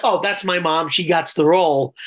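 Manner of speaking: usual speaking voice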